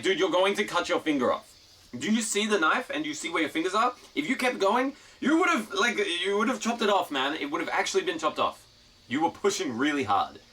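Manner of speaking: imitating getting worked up at a careless kid; heated scolding. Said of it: "getting fucking, uh, heated at him".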